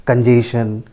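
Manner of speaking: कंजेशन as kun-JAY-shun; plain SH in कंजेशन; common mispronunciation. Shown as a demonstration. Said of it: "That is also wrong". (कंजेशन का गलत उच्चारण)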